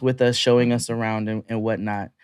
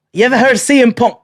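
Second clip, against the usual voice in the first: eager question; 10 semitones higher, 6 dB louder, faster than usual. Retold or imitated. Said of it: "guys asking questions".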